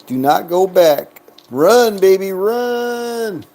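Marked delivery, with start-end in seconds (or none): 1.5-3.4 pleading cheer, the last run drawn out slowly; urging the dice on, high and stretched; high, slow cheer for the dice to keep rolling. Real, not acted. Cheering on a craps roll.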